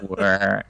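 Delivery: drawn-out fan warble noise; imitated fan whir. Host showing how talking through a fan sounds, whirring. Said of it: "talking through a fan and it does the".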